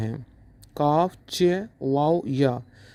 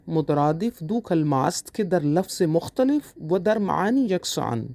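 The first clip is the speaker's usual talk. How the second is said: slower, word by word, for students to note; slow dictation. Shown as a demonstration. Teacher repeating the definition for students to write, slow dictation. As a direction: spell it out slowly for dictation. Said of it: "teacher repeats Persian definition".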